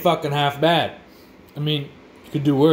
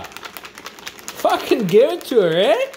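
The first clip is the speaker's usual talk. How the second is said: slow, much higher cheering holler; drawn-out cheer; 9 semitones higher, slower than usual. Real, not acted. Cheering on the boys while shaking, slow and high. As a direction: stretch it out like a rowdy cheer.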